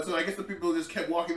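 ordinary delivery

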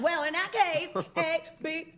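high, slow mock eagerness; imitating him. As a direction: teasingly mimic a guy reconsidering, drawn out. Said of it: "He's like".

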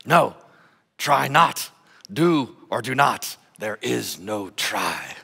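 a hint of the little Jedi master; bad Yoda voice. Pastor quoting Yoda to the congregation, a light Yoda voice. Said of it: "I'm just terrible accent".

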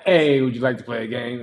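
lightly done robot voice; a hint of a flat robot. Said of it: "in my robot voice".

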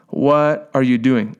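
slow, drawn-out disbelief; incredulous inner voice. Retold or imitated. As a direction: stretch out WHAT, as if questioning yourself. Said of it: "my head is saying".

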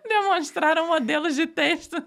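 high, loud, laughing through the words; laughing while choking. Real, not acted. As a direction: struggle to read through laughter. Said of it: "eu engasguei".

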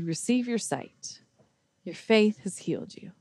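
soft, hushed blessing; gentle pronouncement. Retold or imitated. Jesus healing the blind beggar, gently. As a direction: say it quietly, as a tender gift.

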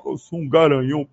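mock the macho boast; mocking stud voice. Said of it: "você é o".

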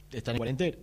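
"cuarentena" cut short by a hiccup, rising. Real, not acted. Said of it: "Perdón, tengo hipo".

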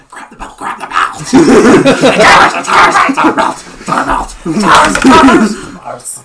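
shrill, loud tiny sprite voice; pixie. Acted. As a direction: squeal it like a greedy little sprite. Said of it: "same little voice in your head".

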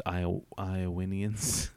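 Iowanians drawn out slowly; slow playful Iowanians. Shown as a demonstration. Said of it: "open up your minds".

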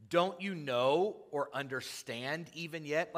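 mildly testy, drawn-out rebuke; slow, lightly exasperated question; Jesus getting a little salty. Acted. Jesus to his arguing disciples, a little salty. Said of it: "you can hear Jesus getting a little salty".

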